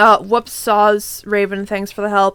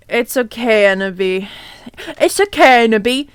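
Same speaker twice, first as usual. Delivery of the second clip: comforting; 2 semitones lower than usual. Acted. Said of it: "said Vampire comfortingly".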